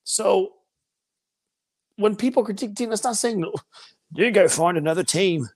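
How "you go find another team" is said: put-on slipping into a lightly British accent, lower; a hint of a British accent, mocking dismissive fans. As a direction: sneer it in a half-British put-on. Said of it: "I don't know why I'm British all of a sudden".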